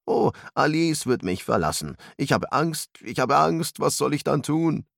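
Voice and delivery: high-pitched, hammed-up panic; exaggerated fear. A narrator's reading. Arthur exaggerates fear that Alice will leave, mock-panicked. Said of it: "übertrieb seine eigene Angst".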